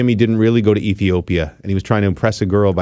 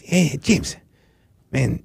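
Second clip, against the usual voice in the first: Dave Shaw; 3 semitones higher than usual. Retold or imitated. Jamaican buddy phoning with news about that chick, imitated Jamaican accent. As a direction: imitate a Jamaican friend breaking news on the phone. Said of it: "that's not me trying to do a Jamaican accent. That's my buddy Dave Shaw".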